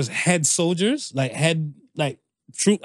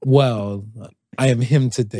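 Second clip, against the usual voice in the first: low, self-important voice; lowered-jaw tone; 6 semitones lower than usual. Acted. Host owning his teased tone, low and mock-serious. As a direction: sink into a deep announcer-like register.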